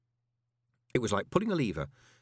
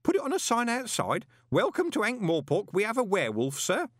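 kindly; 13 semitones higher, 4 dB louder than usual. A narrator's reading. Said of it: "in a kindly voice".

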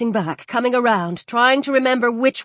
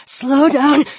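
sharp, louder panicked command; urgent; 2 semitones higher, 4 dB louder than usual. Acted. Gasping man orders himself to slow down, louder. Trying to calm his breathing.

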